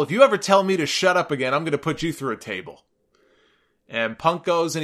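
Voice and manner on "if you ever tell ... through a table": a hint of an angry announcer threatening; mock threat. JBL threatening Cole after being told off, mock angry. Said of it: "He tells Cole".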